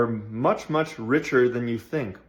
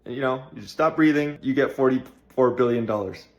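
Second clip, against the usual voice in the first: Elon Musk impression. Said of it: "If Elon Musk calls you on the phone and he says".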